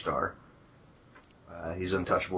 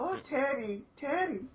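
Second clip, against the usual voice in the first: a much higher, hammed-up Russian woman's voice; bad Russian accent; 4 dB quieter, slower than usual. Friend attempts Oksana's accent on Teddy, high mock Russian falsetto. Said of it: "I can't do it either".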